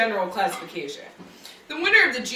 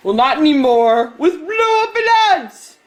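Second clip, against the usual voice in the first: ad announcer; 3 dB louder than usual. Acted. TV ad pitch.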